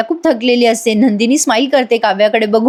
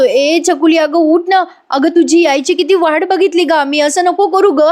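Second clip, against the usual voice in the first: high, plaintive mock-tearful plea; retold tearful pleading; 6 semitones higher than usual. Father begs his newborn to wake, acted as tearful. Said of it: "Parth रडत असतो आणि म्हणत असतो".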